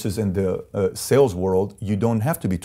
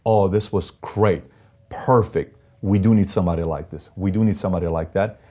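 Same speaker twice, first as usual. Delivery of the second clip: grateful thanks. Retold or imitated. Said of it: "I'm sitting there saying".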